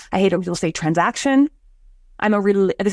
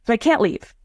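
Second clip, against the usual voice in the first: ordinary delivery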